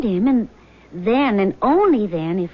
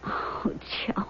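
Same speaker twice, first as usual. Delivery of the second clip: breathless tender whisper; 3 semitones lower, 12 dB quieter than usual. Acted. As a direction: breathe his name softly. Moved by husband's honesty.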